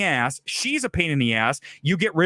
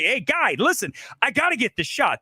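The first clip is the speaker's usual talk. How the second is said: demanding; 5 semitones higher than usual. Shown as a demonstration. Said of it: "That's not being aggressive".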